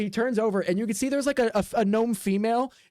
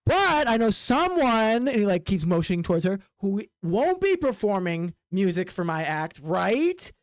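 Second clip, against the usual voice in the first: sly ringmaster. Acted. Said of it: "he goes".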